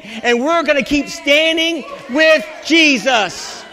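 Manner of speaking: rousing preacher's declaration; urging the congregation to stand firm; fervent preaching. Real, not acted. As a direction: preach it with rising conviction, stretching the key words. Preaching builds in force.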